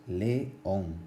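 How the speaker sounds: león said in two syllables, le-ón, falling on ón; teacher separating the hiatus in león; two beats. Shown as a demonstration. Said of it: "Se pronuncia en dos golpes de voz".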